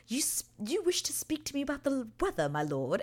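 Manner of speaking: high-pitched, incredulous Regency lady; mock period lady. Kate answering Anthony's small talk about weather, incredulous. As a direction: put on a high, formal lady's voice. Acts Kate's stiff reply to Anthony.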